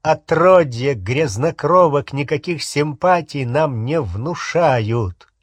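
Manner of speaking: disdainful sneer, drawn out at the end; acted haughty contempt; contemptuous. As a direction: dismiss them with lofty scorn. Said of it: "презрительно произнёс Яксли".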